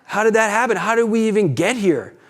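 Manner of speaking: high, laughing disbelief. Retold or imitated. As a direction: ask it baffled, half laughing. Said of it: "you're like".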